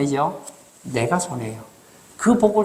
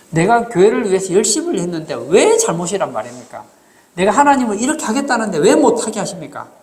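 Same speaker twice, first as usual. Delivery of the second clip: acted protest, raised voice; indignant protest; 2 semitones higher, 4 dB louder than usual. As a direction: plead your case, louder on each "why".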